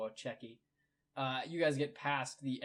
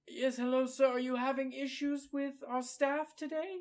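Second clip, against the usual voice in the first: much higher, overly polite helpful clerk; prim clerk voice; 12 semitones higher, 4 dB louder than usual. Acted. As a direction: put on a lofty, prissy customer-service voice. GM voices Bookworm the librarian.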